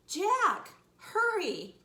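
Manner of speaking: loud, high shout; urgent holler down a hallway; urgent calling. Acted. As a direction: yell for them to hurry. Girl calls down hallway.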